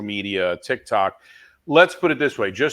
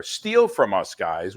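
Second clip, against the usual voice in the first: eager call; slower than usual. Real, not acted. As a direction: pitch it up, inviting them in. Urging audience to copy.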